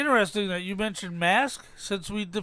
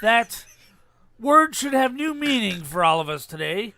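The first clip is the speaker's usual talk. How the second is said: movie speech impression. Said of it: "Guess what movie I've taken this from".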